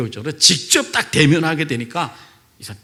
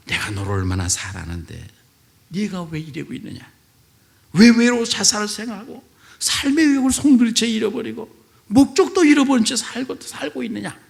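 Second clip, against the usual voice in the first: voice of the Lord; 6 semitones higher than usual. Retold or imitated. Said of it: "그 말에".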